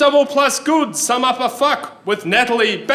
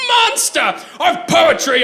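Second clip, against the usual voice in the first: high wailing shout; wailed insult; 6 semitones higher than usual. Retold or imitated. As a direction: wail the accusation at him. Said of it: "he wailed".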